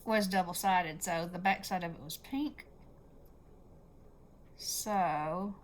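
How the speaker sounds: talking around a straight pin; pin in mouth. Real, not acted. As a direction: speak with a pin held in the lips. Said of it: "she has a pin in her mouth".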